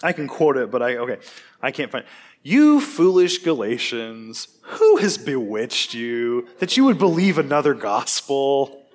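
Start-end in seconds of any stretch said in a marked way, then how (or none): 2.4-8.8 slow, weighty scolding read; slow dramatic rebuke, then laughed off; stern rebuke. Shown as a demonstration. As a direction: scold them like an exasperated apostle. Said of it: "Is that the tone?".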